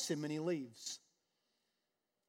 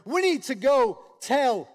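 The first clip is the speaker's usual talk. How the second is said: higher and louder, excited urgency; eager servants; 7 semitones higher, 9 dB louder than usual. Retold or imitated. Servants hurrying to tell their master, excited. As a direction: rush off with good news. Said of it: "his servant's going".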